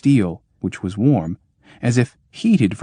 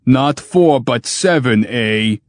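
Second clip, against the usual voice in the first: crowing; 4 semitones higher, 4 dB louder, slower than usual. Acted. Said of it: "crowed the machine".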